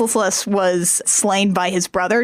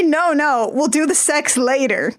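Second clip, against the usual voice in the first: high flustered voice; 4 semitones higher than usual. Retold or imitated. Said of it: "she has to say".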